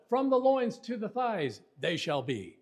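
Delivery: high-pitched "From the loins to the thighs", dropping on "they shall be"; front-load "loins" and "thighs", let "they shall be" fall; Yoda-style fronting. Shown as a demonstration. Teacher likening the verse to Yoda, fronted phrase emphasized. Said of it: "It sounds kinda like Yoda".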